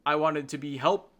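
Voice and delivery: imitating an unfinished dying line; trailing off unfinished. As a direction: break off on "help", leaving the sentence hanging. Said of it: "he trails off by saying".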